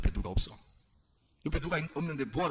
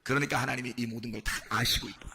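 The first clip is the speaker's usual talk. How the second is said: raised, forceful preacher's voice; emphatic preaching; 10 semitones higher, 4 dB louder than usual. Acted. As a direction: drive each point home to the congregation. (힘주어 설교하는 목소리)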